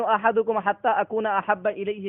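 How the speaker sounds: slow Arabic recitation; measured, slow religious recitation; hadith recitation. Acted. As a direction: chant the hadith deliberately.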